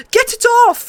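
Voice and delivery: high, loud shriek of pain; screaming in pain. A narrator's reading. Prince shrieks as the wolf mauls him. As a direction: shriek as if the wolf has your arm. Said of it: "he screamed".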